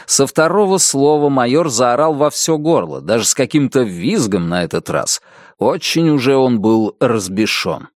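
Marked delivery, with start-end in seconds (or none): none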